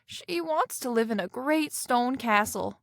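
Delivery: a touch of nervous hush; half scared. Acted. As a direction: say it as if afraid of the answer. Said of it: "half scared".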